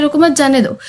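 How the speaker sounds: रुको मत जाने दो as one unbroken line; no comma pause. Shown as a demonstration. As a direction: run straight from रुको into मत. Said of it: "कॉमा हटा देते हैं तो ये एक ही लाइन".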